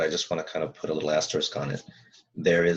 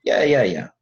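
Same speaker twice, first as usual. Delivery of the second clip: eager client; 5 semitones higher, 6 dB louder than usual. Acted. Client voiced agreeing eagerly.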